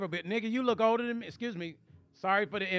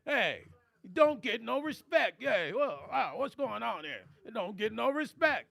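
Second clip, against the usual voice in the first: slow, lightly voiced comic complaint; a hint of the old standup whine; Rodney Dangerfield. Reading the chat's tagline in a mild Rodney voice. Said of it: "Rodney's tagline".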